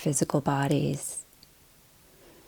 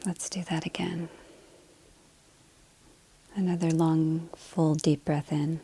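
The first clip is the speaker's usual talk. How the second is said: soft, unhurried meditation voice with long pauses; guided meditation; 4 dB quieter than usual. Acted. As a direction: gently guide them into the breath. Leads breathing to settle in.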